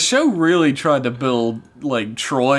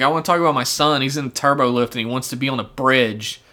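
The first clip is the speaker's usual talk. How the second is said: mock whiny mother; faster than usual. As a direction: parody a mother nagging to let her son aboard. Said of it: "she's just like".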